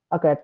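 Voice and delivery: "a" said as uh before "cat"; no stress, "a" as uh in "a cat"; weak article uh. Shown as a demonstration. Teacher giving English for one cat, "a" as unstressed uh. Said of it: "ওয়ার্ডটার উপর জোর দিচ্ছি না".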